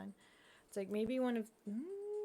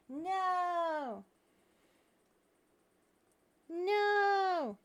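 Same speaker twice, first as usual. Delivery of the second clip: dismayed cry; 6 semitones higher, 3 dB louder than usual. Real, not acted. Glasses won't fit.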